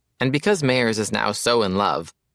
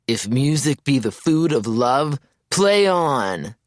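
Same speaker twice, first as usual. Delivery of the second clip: higher, louder theatrical declaiming; hammed-up Shakespeare; 5 semitones higher, 4 dB louder, slower than usual. The speaker declaiming Shakespeare at his friend on a run, hammed-up. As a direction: ham it up like a stage lover, hand on heart. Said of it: "He clutches his chest".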